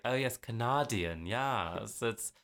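imitating a bad Canadian accent that leans British; mock Canadian accent. Retelling the accent lady from a TV show, mock Canadian accent. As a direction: put on a slow, British-sounding Canadian accent. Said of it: "she does a, a Canadian accent".

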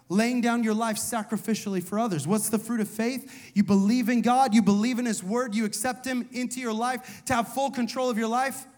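loud, building preacher's call; full-voiced sermon climax; preaching loud. Real, not acted. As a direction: drive it home to the congregation. Preacher's rising call and response.

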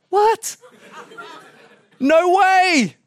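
high-pitched, loud mock outrage; mock disbelief. Viewer reacts to the judges' harsh verdict, in high-pitched mock disbelief. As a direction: yelp it in exaggerated disbelief.

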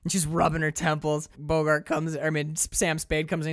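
ordinary delivery

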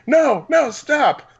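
put-on high, loud Russian-accented pleading; mock Russian accent. Torture victim begs his captors, mock Russian accent. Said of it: "torturing somebody with a Russian accent".

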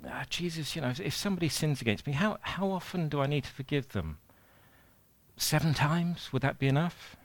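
lightly acted, tentative question to the teacher; Peter. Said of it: "Peter asks him about forgiveness".

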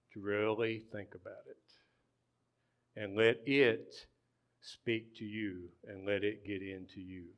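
ordinary talk, nothing marked

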